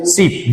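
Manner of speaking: सीप with a long ee; long vowel. Shown as a demonstration. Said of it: "large या long sound में".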